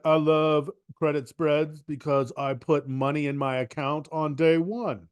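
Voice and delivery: mock-snooty, nose in the air; lightly done snooty quote. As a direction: play a smug investor bragging. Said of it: "That was, that was my snooty voice".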